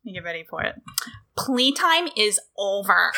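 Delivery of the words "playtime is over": slow, hammed-up catchphrase shout; Dana Brooke. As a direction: draw it out like a wrestler's taunt. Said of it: "get to do my Dana Brooke".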